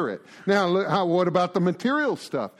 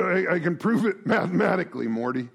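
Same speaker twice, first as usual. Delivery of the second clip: a hint of a stammering mad scientist; Rick and Morty voice; faster than usual. Teacher jokes to his class in a cartoon scientist voice. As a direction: stutter it out like a cartoon genius lecturing his sidekick. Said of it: "Only the fans get it".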